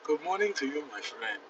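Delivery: a light put-on African accent; friendly African accent, lightly done. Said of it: "African accent".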